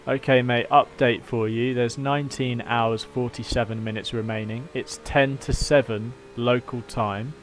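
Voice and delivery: lightly done radio race engineer update; calm team radio briefing to the driver. Pretend. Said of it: "Thanks for your Porsche race engineer impression".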